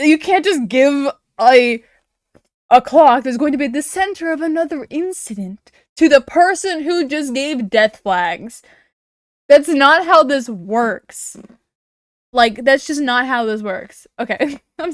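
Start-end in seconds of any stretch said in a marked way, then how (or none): 0.1-11.4 heated rant. Real, not acted. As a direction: protest to the game, worked up. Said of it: "I'm getting heated".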